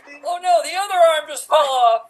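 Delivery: silly clown. Acted. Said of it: "feel as if bit by bit their bones are disintegrating".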